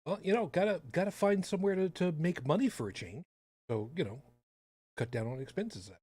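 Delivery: mock sympathy, heavy irony; sarcastic. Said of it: "can you hear the sarcasm dripping".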